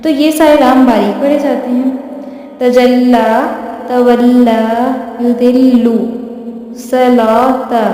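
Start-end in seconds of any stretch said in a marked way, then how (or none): 2.6-7.8 तजल्ला, तवल्ला, युदिल्लु, सलाता each recited with a thin light लाम, the last very slow; Quranic recitation. Shown as a demonstration. Teacher recites example words for students, careful and measured. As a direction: read each word out like a tajweed drill. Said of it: "ये सारे लाम आपने बारीक ही पढ़ने हैं".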